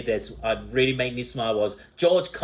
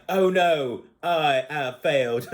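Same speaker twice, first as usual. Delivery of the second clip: slow, slightly raised robot voice; old computer voice; 2 semitones higher, slower than usual. Retold or imitated. Reviewer quoting the failed robot, old computer voice. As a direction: imitate an outdated computer talking. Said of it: "he was speaking like a Windows ninety-eight version".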